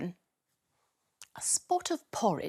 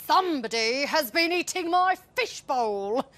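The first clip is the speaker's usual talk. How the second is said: dad voice; 6 semitones higher, 3 dB louder than usual. A narrator's reading. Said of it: "a voice shouting very, very loudly".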